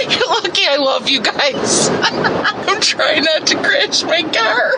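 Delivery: laughing through words; loving exasperation. Real, not acted. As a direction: giggle while talking. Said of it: "I'm talking gigglish".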